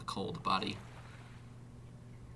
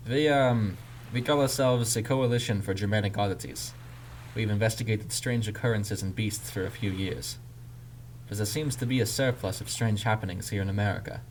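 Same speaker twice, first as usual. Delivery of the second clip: put-on louder German-accented explanation; 6 dB louder than usual. A narrator's reading. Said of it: "a German accent now readily apparent".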